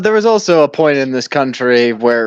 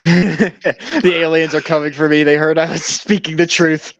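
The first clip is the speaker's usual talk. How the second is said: laughing; 4 semitones higher than usual. Real, not acted. Laughing at alien remark.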